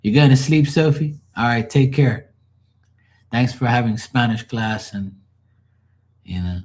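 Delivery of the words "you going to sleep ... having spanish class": lightly voiced mom, higher and louder; the mother saying good night; a hint of mom wrapping up the call; mom's sign-off. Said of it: "she says the same shit every day".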